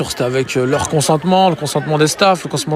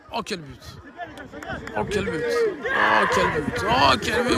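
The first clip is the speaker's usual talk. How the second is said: excited exclamation; 8 semitones higher, 8 dB quieter than usual. Acted. Repeated goal exclamation.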